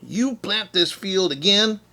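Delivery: indignant bear. Acted. Bear accusing Hare of trickery.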